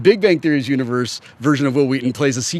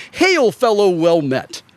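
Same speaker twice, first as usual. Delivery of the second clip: jolly greeting; 5 semitones higher, slower than usual. Retold or imitated. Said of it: "your attitude is like".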